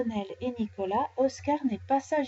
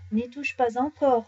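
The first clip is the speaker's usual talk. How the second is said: warning; 4 dB louder than usual. Acted. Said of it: "recommande Pimprenelle".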